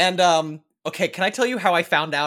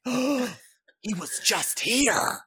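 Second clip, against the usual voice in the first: hushed shocked friend; 6 semitones higher, much slower than usual. Retold or imitated. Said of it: "And she was like".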